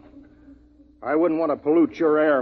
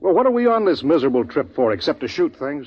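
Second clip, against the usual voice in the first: angry outburst; 4 semitones higher, 3 dB louder than usual. Acted. Quarrel in camp.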